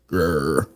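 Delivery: low, soft "grr"; mock angry growl. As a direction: growl half-heartedly in pretend anger. Mimes anger they don't feel.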